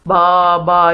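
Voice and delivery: lightly imitated, level-pitched bleat; sheep's bleat. Shown as a demonstration. Teacher showing pupils a sheep's sound, mild bleating. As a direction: show how a sheep goes baa. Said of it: "جس طرح سے بھیڑ کی آواز ہوتی ہے".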